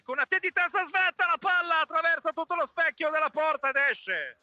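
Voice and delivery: sudden high, urgent call; excited commentary. Real, not acted. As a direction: react to the near goal. Header just misses the goal.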